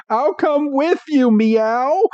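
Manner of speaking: high, squeaky cat-Pokemon voice ending on a meow; Meowth voice. Acted. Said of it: "I love doing the Meow stuff".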